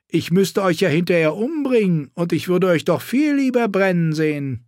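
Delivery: mock her with crude contempt; crude knight. A narrator's reading. Sachs chuckling, threatening.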